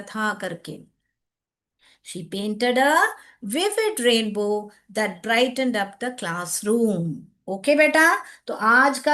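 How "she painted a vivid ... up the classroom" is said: slow repeat with a pause mid-sentence; teacher reading slowly for note-taking; slow dictation. Shown as a demonstration. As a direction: dictate it slowly in separate chunks.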